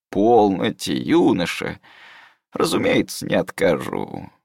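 put-on slow, pedantic old scholar; old mentor voice.

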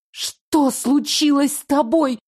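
high, slow, breaking voice. Acted. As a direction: let the voice crack. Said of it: "срывающимся голосом спросила я".

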